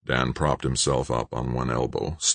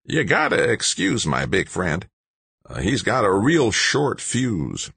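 put-on higher, raspy old man's voice; voice like sandpaper; 5 semitones higher than usual. A narrator's reading. Old man excusing his big friend, sandpaper rasp. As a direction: rasp it like an old diesel grinding its gears. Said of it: "said in a voice like sandpaper".

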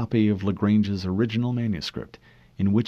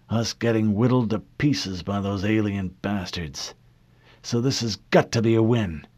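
put-on grim old admiral; 3 semitones higher than usual. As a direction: push for a win at any cost.

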